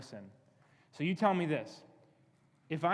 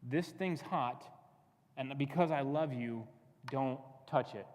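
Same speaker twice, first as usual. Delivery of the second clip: slow, gentle warning in God's role; caring warning; 2 semitones lower, slower than usual. Acted. God warning a child he loves, gently cautioning. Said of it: "he warns you and says".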